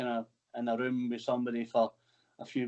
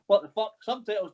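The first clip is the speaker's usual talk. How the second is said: shocked disbelief; 8 semitones higher than usual. Retold or imitated. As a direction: blurt it out like you can't believe it. Retold outrage at Facebook note.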